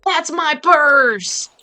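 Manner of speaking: high, very drawn-out cartoon holler. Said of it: "Say it louder".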